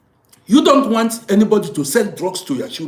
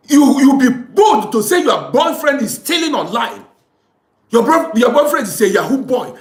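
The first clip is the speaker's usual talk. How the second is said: indignant shout; 3 semitones higher than usual. Real, not acted. Angry rant at proud girlfriends.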